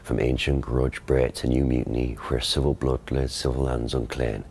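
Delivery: Shakespearean original pronunciation accent. Shown as a demonstration. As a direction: rhotic Elizabethan stage verse. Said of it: "You do that one?".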